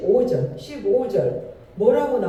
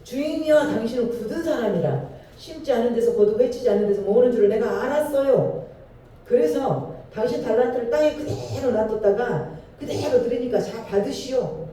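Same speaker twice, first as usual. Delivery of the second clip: complaining servant; 3 semitones higher than usual. Acted. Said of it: "한 달란트 받았던 자는 와서 이르되".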